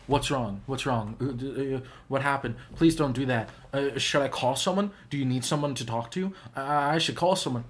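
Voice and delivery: mild mock panic, stammering between questions; panicked concern. People reacting to a friend's confession, mildly panicked. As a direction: act out a flustered, worried friend. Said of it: "panic. It causes distress in people".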